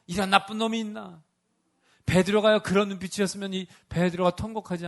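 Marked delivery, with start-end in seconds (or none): 0.1-1.2 reproachful scolding. Pretend. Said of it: "책망하는 눈빛으로?".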